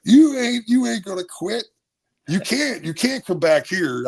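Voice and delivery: high-pitched, indignant father imitation; dad refusing. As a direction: play a dad flatly shutting down his son. Acts out dad refusing his son.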